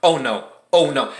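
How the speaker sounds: low, soft worried muttering; quiet mock panic; panicked oh no. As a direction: dread as the engine dies. Panicked as car dies.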